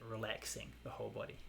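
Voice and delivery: relaxing the whole body said softly and calmly, as a cue; soft meditation cue. Shown as a demonstration. Teacher giving the breathing cue to students, softly. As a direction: murmur it gently like a guided instruction. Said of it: "I'm just gonna say it like that".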